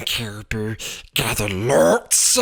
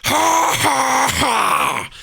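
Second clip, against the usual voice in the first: high, loud spelt-out laughter; laughing; 10 semitones higher, 4 dB louder, slower than usual. A narrator's reading. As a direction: laugh at the silly mistake. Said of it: "laughed and laughed".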